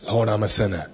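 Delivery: plain, honest admission to God; sincere confession. Shown as a demonstration. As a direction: own it simply and sincerely.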